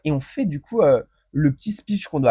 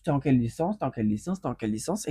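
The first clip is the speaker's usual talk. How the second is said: the same question asked again and again, getting softer; repeating, fading; 6 dB quieter than usual. Retold or imitated. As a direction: ask round the table, fading each time. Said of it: "on fait connaissance".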